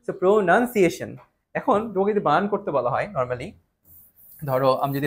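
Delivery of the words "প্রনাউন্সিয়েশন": slow প্রনাউন্সিয়েশন with "nun" in the middle; corrected pronunciation. Shown as a demonstration. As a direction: spell out প্রনাউন্সিয়েশন as "pro-nun-siation". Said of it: "It's a pronunciation".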